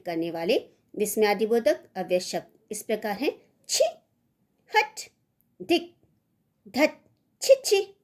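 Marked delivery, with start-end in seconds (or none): 3.7-8.0 rising revulsion, sharpest on छी, छी; disgusted exclamations. Shown as a demonstration. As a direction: spit them out in contempt. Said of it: "तिरस्कार बोधक या घृणा".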